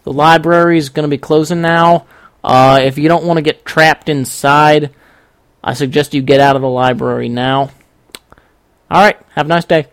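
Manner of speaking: lightly voiced easygoing old man; unhurried announcement with pauses, only lightly acted; laid-back old guy. Old guy on the loudspeaker announcing closing, laid-back. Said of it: "really just laid-back old guy".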